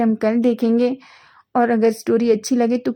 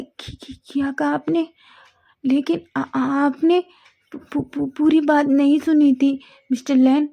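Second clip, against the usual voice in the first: stammering in disbelief, voice a little higher; shocked stammer; 4 semitones higher than usual. Acted. Wing to Wang, stunned at what he heard, stammering. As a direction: stumble over the words, stunned. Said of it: "उसकी आंखें बड़ी-बड़ी हो जाती हैं".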